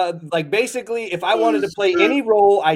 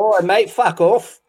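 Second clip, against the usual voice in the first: slow, hammed-up Cockney thug; mock Cockney accent; 3 semitones higher, slower than usual. Podcaster playing a movie Londoner, mock Cockney accent. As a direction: stretch it out in fake Cockney. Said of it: "are definitely movie accents".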